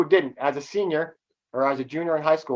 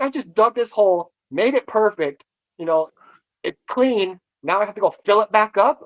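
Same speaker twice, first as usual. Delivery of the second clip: higher and louder, an indignant rant; retold teenage anger; 7 semitones higher, 8 dB louder than usual. Teen rants about filling the hole back in, indignant. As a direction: vent like an outraged teenager. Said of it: "I was so freaking pissed and angry and mad".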